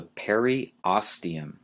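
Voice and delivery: periosteum, slowly, pair-ee-OS-tee-um; careful pronunciation. Shown as a demonstration. Teacher introduces a hard term to students, careful pronunciation. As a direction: sound out periosteum carefully, stressing "OS". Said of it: "this one might be a little hard to pronounce".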